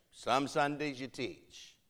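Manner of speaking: slow delivery, dropping away on "teach"; understated falling remark. Retold or imitated. Matriarch remarking to preacher on his teaching, understated and falling.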